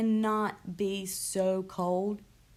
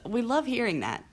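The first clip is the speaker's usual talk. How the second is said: higher-pitched sarcastic gush; 4 semitones higher than usual. Real, not acted. Chronically ill host on hearing "you don't look sick", sarcastic. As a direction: say it with mock delight. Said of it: "Yeah, I'm being sarcastic".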